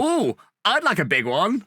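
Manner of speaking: slow, high suggestive ooh; camp panto line. Retold or imitated. Footballer imagined on panto stage, camp and slow. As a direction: tease it like a panto dame. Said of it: "Would Gary Cahill be like".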